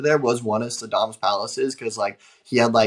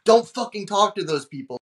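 higher-pitched mock scolding; urgent warning; 6 semitones higher than usual. Host telling visitors off for greeting locals, mock urgent warning. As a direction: lightly imitate an alarmed host's warning.

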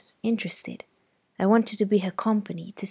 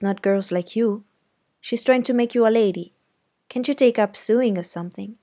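louder, knowing brother; big brother; 5 dB louder than usual. Acted. Jem advising Scout about Auntie, louder. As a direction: advise her like an older brother.

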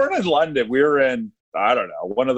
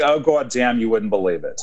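put-on Queens accent; 2 semitones lower than usual. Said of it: "Like that, you know?".

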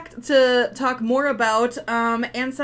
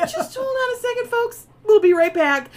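high, bright announcer parody; radio host voice; 11 semitones higher, 5 dB louder than usual. Pretend. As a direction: play a cheesy radio host.

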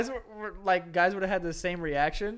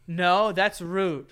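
slow mock huff; 2 semitones higher, 4 dB louder, much slower than usual. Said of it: "She's like".

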